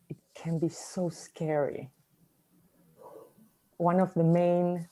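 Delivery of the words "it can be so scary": breathy hushed whisper about fear. Acted. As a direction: drop to a scared whisper. Whispered aside about silence.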